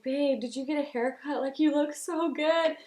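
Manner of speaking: high-pitched gushing compliment; retold gushing. Bride-to-be admiring her fiancé at the proposal, high retold gushing.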